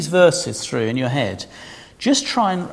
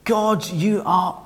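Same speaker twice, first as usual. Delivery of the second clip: mock shouting; 3 semitones higher than usual. Israel shouting at God from the witness stand, mock shout. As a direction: shout it back at God in protest. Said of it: "hear Israel shouting at God from the witness stand".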